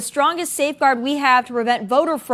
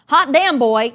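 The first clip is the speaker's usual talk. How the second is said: a light mocking Southern twang, louder; mock Southern phrase; 6 dB louder, slower than usual. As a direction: quote the phrase with scorn. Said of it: "heard the phrase".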